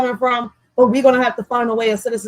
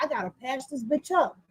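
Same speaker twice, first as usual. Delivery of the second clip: resigned mutter; 13 dB quieter than usual. Retold or imitated. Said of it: "I'm like".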